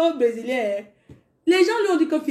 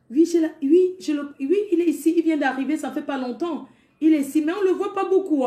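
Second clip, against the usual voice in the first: higher, eager neighbourhood grandma; quoting the mamie, higher and quick; chatty mamie; 4 semitones higher than usual. Retold or imitated. Congolese mamie answering the sister, eager and higher. Old Congolese ladies voiced.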